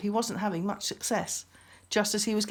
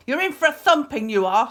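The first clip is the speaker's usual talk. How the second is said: threatening beast; 6 semitones higher, 9 dB louder than usual. A narrator's reading. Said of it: "said the beast".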